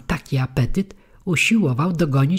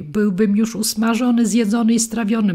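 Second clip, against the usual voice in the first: much higher and louder, panicky; frightened outburst; 8 semitones higher, 5 dB louder than usual. A narrator's reading. Puppet telling the dog his terror, high frightened cry. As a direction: blurt the horror of being fried. Pinokio recalls near death.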